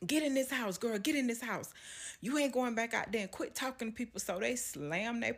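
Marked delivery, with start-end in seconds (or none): 0.1-4.2 scared grandparents. Retold or imitated. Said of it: "they both become extremely fearful".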